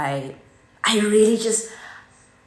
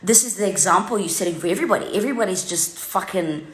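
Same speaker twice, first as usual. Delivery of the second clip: retold rant; 2 semitones higher than usual. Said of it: "I said to them".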